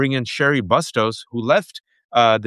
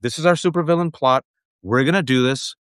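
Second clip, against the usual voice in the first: higher, lightly hammed-up villain gloating; mock supervillain; 4 semitones higher than usual. Host mocking billionaires as gloating cartoon supervillains. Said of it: "They're like, We're the supervillains".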